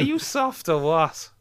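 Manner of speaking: botched Scouse that sounds Irish; lilting, nearly Irish attempt at Scouse; Scouse sliding into Irish. Shown as a demonstration. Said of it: "the best Irish accent you've ever done".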